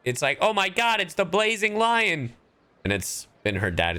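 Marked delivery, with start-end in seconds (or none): 0.4-2.3 imagined excited fan. Pretend. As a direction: squeal like a starstruck fan, hammed up. Imagined fan gushing over idol.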